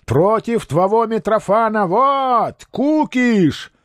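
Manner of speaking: high-pitched defiant outburst; monk's scornful cry; angry shout. A narrator's reading. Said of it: "закричал Феодосий".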